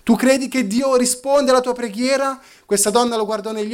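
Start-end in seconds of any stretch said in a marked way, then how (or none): 0.0-2.4 voce più alta, incredula, senza ridere; scettico derisorio. Retold or imitated. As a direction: imita uno scettico che mette in dubbio. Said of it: "Gli fece una grassa risata". (tono scettico, lievemente derisorio)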